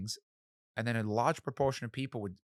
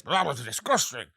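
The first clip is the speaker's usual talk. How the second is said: slower, louder, higher drawn-out teacher sneer; stiff-necked teacher; 3 semitones higher, 6 dB louder than usual. Retold or imitated. Mimicking the audition teacher to the host, slow and louder. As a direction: stretch it out like a snooty examiner looking down. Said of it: "He had a neck that was like this".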